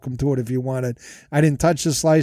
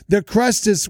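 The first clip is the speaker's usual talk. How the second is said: mock Jersey accent, pitched higher; 5 semitones higher than usual. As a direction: put on an Italian-Jersey accent. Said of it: "it's more of a Jersey accent".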